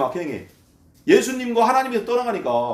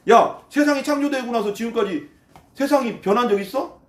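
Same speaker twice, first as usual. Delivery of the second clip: higher-pitched sarcastic challenge; mocking scoffer's rant; sneering; 4 semitones higher than usual. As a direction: jeer at them, pitch climbing as it goes. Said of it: "계속 비아냥거리는 거예요".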